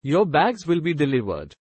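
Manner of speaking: lightly voiced deep robot; a hint of a robot voice. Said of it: "Asterisk in a deep, robotic voice".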